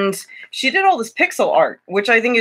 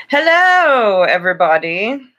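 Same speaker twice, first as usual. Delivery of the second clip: higher, louder British hello to the audience; British accent; 3 semitones higher, 5 dB louder than usual. Pretend. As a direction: greet them like a British presenter. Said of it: "going in and out of British".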